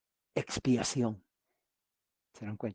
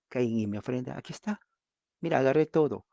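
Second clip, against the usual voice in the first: Cain offering; 3 semitones higher, 4 dB louder than usual. Acted. Cain presents his offering proudly.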